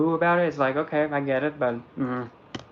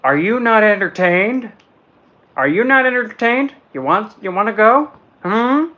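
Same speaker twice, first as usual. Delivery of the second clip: taunting gladiator, higher and louder; gladiator challenge; 7 semitones higher, 7 dB louder than usual. Retold or imitated. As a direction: roar it at the crowd like a gladiator. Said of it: "Or better yet".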